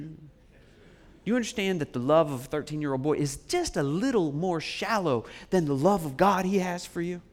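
normal talking voice

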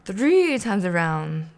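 slow, stretched gleeful count; milk each word. Acted. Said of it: "the Count continued".

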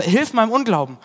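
pleading cry. Acted. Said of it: "Und dann sagt der Vater".

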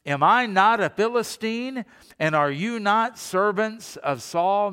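mocking giant's roar; Goliath shouting. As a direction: bellow the challenge across the valley. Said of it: "He stood and shouted".

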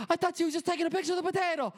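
very high, rushed squawk; imitating yelling Italian lady. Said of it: "these little Italian ladies yell".

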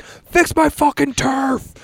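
hammed-up angry yell, drawn out; mock furious rant. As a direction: imitate a guy losing it over his turf. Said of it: "he fucking goes nuts".

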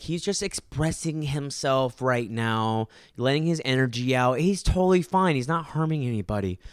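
slow, airy mock mom voice; mimicking the breezy mom. The mom brushing off the narrator, a slow airy mock voice. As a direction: play the unbothered mom, drawn out. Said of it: "she was like".

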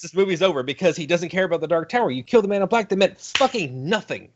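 high, exasperated mock announcement; exasperated rant. Fan retells his exasperation at the movie's ending. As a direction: declare the movie over in disgust.

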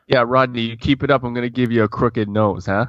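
a hint of mock Italian mobster. The speaker jokingly threatens Rodney over crooked teeth, lightly mobster-like. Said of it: "here comes the Italian, the Italian mobster version of him".

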